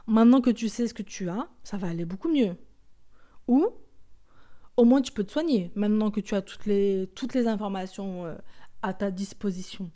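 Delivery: quoting relatives. Retold or imitated. Quoting well-meaning relatives.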